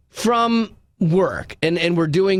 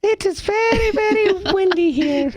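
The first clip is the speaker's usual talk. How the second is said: put-on kid in Indonesia. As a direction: stretch it out like a small foreign child.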